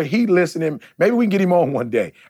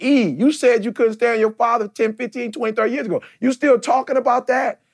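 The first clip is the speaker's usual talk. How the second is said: imitating his followers; 7 semitones higher than usual. Voicing his followers challenging him.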